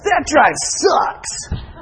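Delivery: slow, drawn-out Texan drawl, mildly done; lightly imitated Texas drawl. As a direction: stretch it out like a tired Texan. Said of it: "this is the way it is in Texas".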